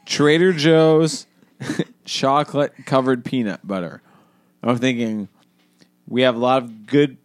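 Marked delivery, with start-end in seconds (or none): 0.1-4.0 slow. Shown as a demonstration. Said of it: "let's just go slow and dissect this".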